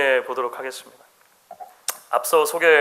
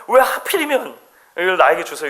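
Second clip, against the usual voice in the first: lightly voiced child nephew. Preacher acting the Korean-American nephew thanking his aunt, lightly voiced. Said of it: "이렇게 얘기했다는 거예요".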